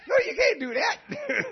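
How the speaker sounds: high, loud, drawn-out objection; mock scolding. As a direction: shoot the idea down loudly and slowly. Scolding reply to the imagined prayer.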